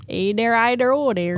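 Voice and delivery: put-on lightly done Wisconsin accent again; a touch of Wisconsin twang. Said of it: "that's the Wisconsin accent".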